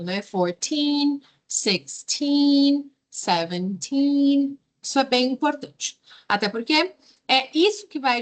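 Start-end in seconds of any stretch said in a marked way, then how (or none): 0.2-4.6 put-on Fourteen, sixteen, seventeen with the teen syllable hit hardest; stress on teen. Shown as a demonstration. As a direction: lean on the teen ending of each number. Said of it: "teen é a parte mais forte da palavra".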